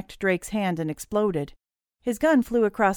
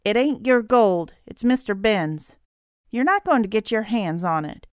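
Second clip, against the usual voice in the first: petulant; 3 semitones higher, 4 dB louder than usual. Acted. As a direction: dig in like a sulky child. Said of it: "the petulant scowl of a child".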